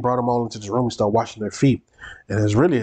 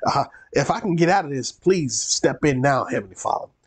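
wishy-washy pleading; 3 semitones higher than usual. Retold or imitated. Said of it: "He began to get wishy-washy".

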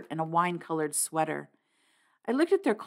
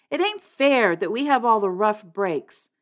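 passionate; 3 semitones higher, 4 dB louder than usual. Acted. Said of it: "I cried passionately".

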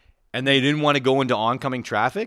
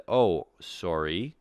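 drawn-out, lower sarcastic apology; 5 semitones lower, 3 dB quieter, much slower than usual. Retold or imitated. Walker apologizing to the blind man's helper, slow and sarcastic. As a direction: stretch out a fake-polite sorry. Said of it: "in a bit of a sarcastic voice".

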